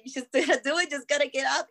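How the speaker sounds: laughing dad. Retold or imitated. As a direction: imitate a dad laughing as he coaches. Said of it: "My dad's laughing".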